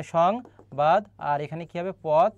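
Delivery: "সং", "বাদ", "পথ" as separate pieces, shong, bad, pot; syllable-by-syllable pronunciation. Shown as a demonstration. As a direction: break it up, with sh opening "সং". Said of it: "তালব্য শ হবে". ("সং", "বাদ", "পথ" আলাদা করে ভেঙে উচ্চারণ)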